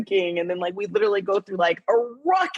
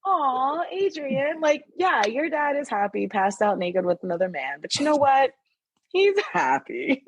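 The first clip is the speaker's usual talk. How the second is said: tender aww; 5 semitones higher than usual. Retold or imitated. Tender reaction to Adrian.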